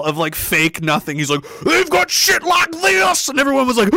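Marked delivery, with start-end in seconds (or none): 1.6-3.3 high, drawn-out shouted alarm; mock alarm. Imitating Colin Powell holding up a vial, mock alarm. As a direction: cry it out slowly like a scare-monger.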